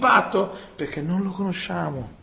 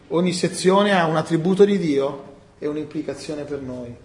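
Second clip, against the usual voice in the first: ordinary talk, nothing marked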